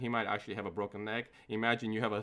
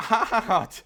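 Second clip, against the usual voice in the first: long stretched yell on the word; hammed-up, drawn-out holler; mock freak-out; 11 semitones higher, 12 dB louder than usual. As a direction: drag it out loud and high.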